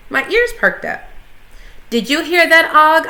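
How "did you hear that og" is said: high, excited squeak; little hamster squeaking with excitement; squeaky. A narrator's reading. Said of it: "I squeaked".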